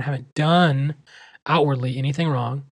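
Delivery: "done" given the main weight of the phrase; stress on done. Shown as a demonstration. Host clarifying his point to listeners, stress on "done". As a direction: lean on "done", then go on to "outwardly". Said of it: "emphasis on done".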